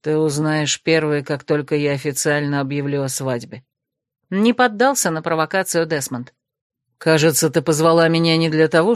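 low, even voice of a reserved man; lightly voiced cool necromancer; calm male necromant. Desmond corrects Krasimirka, coolly low.

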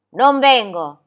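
loud, stubborn shout back; defiant refusal. A narrator's reading. Goatherd to the girl who called him, defiant shout.

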